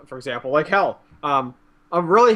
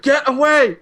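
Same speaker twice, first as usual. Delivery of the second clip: higher, louder get away; mock rage; 9 semitones higher, 3 dB louder than usual. Gamer recalling raging at friends nearby, mock angry yelling. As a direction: play a kid raging at friends.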